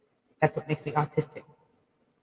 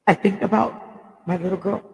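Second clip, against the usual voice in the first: crying; 4 dB louder than usual. Real, not acted. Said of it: "the reason why I'm crying is".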